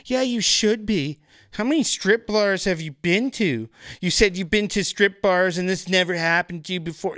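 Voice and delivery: high, imitated huffy rebuke; indignant scolding. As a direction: tell him off like an offended dancer. Dancer scolds him, imitated.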